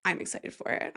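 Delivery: breathy whisper; whispered excitement. Shown as a demonstration. Hyping the Companion trailer to listeners, whispered. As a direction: whisper it like a secret.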